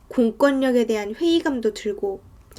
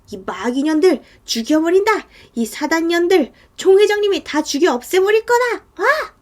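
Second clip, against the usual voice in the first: raised, threatening rant climbing higher; acted angry yelling; 5 semitones higher, 3 dB louder than usual. Bald man at the bars threatening them, angry yelling. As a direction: yell threats, rising to a high cry. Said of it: "이러면서 계속 소리를 지르고 있었어".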